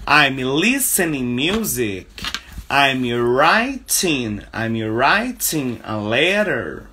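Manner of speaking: very slow, stretched example sentences; slow teaching model. Shown as a demonstration. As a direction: dictate slowly for learners.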